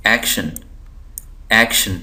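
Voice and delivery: एक्शन with first syllable एक pressed; stress on AK. Shown as a demonstration. Teacher demonstrating accent to students, stress on एक in एक्शन. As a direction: hit एक in एक्शन, let शन fall. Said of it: "जो ज़ोर देकर पढ़ रहा हूँ".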